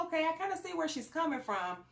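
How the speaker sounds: laughing mock understanding. Jokingly voicing her own reaction.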